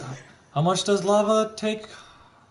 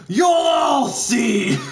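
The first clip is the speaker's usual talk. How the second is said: slow, loud, higher villain yell; wild unhinged ranting; 10 semitones higher, 5 dB louder, much slower than usual. Acted. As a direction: bellow the threat like a madman. Echoing the villain line, louder.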